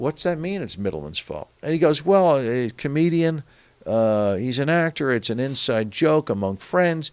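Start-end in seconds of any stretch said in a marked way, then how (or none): 0.0-1.5 quiet, quick, acted serious tone. Retelling a Secret Service agent's question to Brian: retelling in a more serious tone. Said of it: "in a more serious tone".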